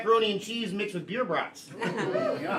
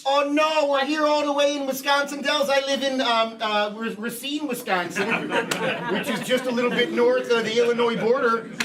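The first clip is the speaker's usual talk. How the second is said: panicked boss; 4 semitones higher than usual. Acted. Improv boss panicking about dogs.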